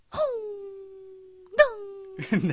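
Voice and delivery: ホンダ split by a long pause. Shown as a demonstration. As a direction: hold ホン, wait, then land a long ンダ. Trying car name as jingle.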